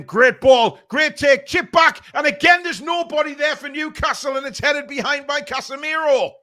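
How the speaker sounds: the commentary lifts as the move builds; rising excitement. Real, not acted. Fan calling the Newcastle attack live, rising excitement.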